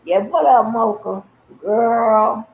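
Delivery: loud, bright hello; excited hello to Mocha; excited greeting. Real, not acted. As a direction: call out to a friend. Loudly greeting arriving friend.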